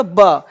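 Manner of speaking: "ब" as a short buh, not bee; B sound demo. Shown as a demonstration. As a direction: sound out "ब" as a b with a brief uh. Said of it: "बी sound का sound क्या". ("ब" का छोटा उच्चारण)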